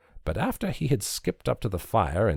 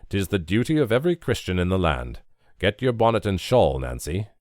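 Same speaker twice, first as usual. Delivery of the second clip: pulpit tone. A narrator's reading. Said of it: "as though from the pulpit".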